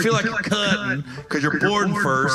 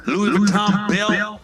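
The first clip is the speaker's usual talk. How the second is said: slow listing; slower than usual. Acted.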